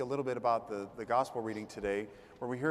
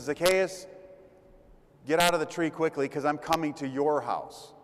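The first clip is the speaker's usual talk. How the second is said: calling out by name; 2 semitones higher, 3 dB louder than usual. Retold or imitated. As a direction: call him by name across the street. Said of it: "But he turns and he says".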